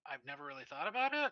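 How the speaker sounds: shrugging. Acted. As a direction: act out a puzzled shrug in words. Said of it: "shrugs. He's kinda like".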